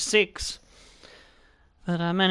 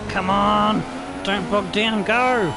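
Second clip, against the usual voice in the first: shouting; 3 semitones higher, 3 dB louder, slower than usual. Real, not acted. Urging car out of corner.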